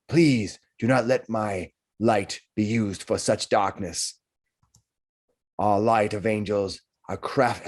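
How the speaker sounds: slow, solemn dying messenger; a grave message, slow and measured; strange messenger voice. Acted. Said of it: "in a strange voice".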